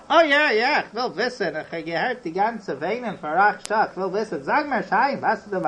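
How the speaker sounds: eager insistence. Acted. Acted impatient neighbour pressing for story.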